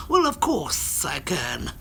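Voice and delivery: slow, then squeak up for the last words; a hint of an animated car character; talking car voice. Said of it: "Could I do the car voice for Christian?".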